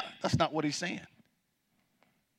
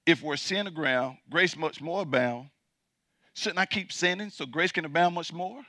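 imagined objector; 2 semitones lower, 10 dB quieter than usual. Retold or imitated. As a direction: murmur the question as a doubter. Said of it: "imagine the objector saying".

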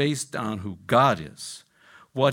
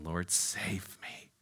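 retold cry for help; 5 semitones lower, 9 dB quieter, much slower than usual. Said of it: "he cried out".

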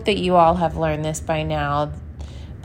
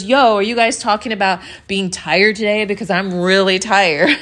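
louder, higher mock interjection; lightly voiced store guy; 3 semitones higher, 5 dB louder than usual. Podcaster imitating store worker joining chat, lightly louder and higher. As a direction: butt in loudly, lightly imitating a coworker. Retold coworker butting in on the chat.

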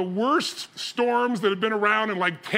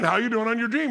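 higher, firmer repeat of the question; pressing repeat; 4 semitones higher than usual. Retold or imitated. Dad who sees through his daughter asks, pressing. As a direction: press her, as if she knows full well.

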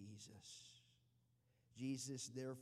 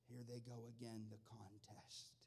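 hushed aside to the congregation; whisper; 7 dB quieter than usual. Acted. Hushed aside during story.

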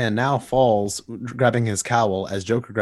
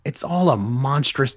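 ordinary talk

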